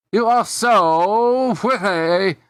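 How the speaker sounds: smitten. Acted. Smitten Larry meets the girl.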